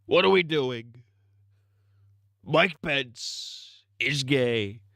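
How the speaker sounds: lightly voiced robot assistant; a hint of a Siri robot. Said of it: "robot Siri type voice".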